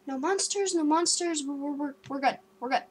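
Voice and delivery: acting out anxious muttered reassurance to self; freaked out. Storyteller glancing round the bedroom at night, freaked out. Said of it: "all freaked out".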